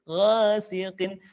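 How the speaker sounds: "Ghasiqin" with shorter swayed a; measured vowel. Shown as a demonstration. Teacher models the fix, measured "Ghasiqin". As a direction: swing "Gha" without overholding. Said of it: "tidak kepanjangan".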